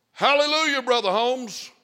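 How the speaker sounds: high, loud holler; hollered hallelujah. Retold or imitated. Someone in the operating room hollering to Brother Holmes, high and loud. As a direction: call it out across the room. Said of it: "somebody hollered at me".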